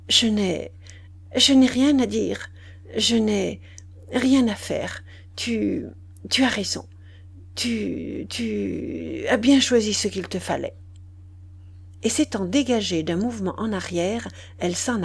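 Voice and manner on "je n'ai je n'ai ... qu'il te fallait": halting, broken phrases near tears; tearful stammer. Acted. The abandoned mistress stammers her reproach to Duroy. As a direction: stumble over the words, holding back sobs. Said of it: "Et elle balbutia".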